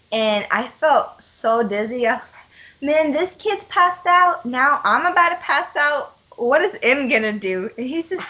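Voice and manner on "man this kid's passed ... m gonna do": mock panic. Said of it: "I started panicking really bad".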